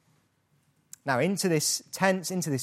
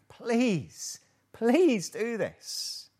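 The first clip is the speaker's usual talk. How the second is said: gentle pleading; 6 semitones higher, much slower than usual. Acted. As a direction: coax them kindly. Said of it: "he is pleading with them".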